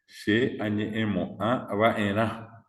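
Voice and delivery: slow, joined-up "she añe emo a va en a"; demonstrated pronunciation. Shown as a demonstration. Teacher joins the parts for class, slow model of "she añe emo a va en a". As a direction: say "she añe emo a va en a" slowly as one conjugated word. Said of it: "yo tengo que decir".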